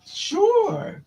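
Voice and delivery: high, casual "Sure"; lightly voiced tough father agreeing; mock calm acceptance. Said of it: "And he was like".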